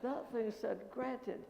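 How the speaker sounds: slow, rising, fuller; the penny drops, building up; slow growing excitement; dawning excitement. Retold or imitated. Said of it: "then I exploded".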